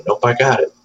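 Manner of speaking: lightly voiced little girl, brisk and sure; a hint of a toddler's confident reply; toddler cadence. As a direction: mimic her proud little cadence. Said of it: "the whole cadence of it".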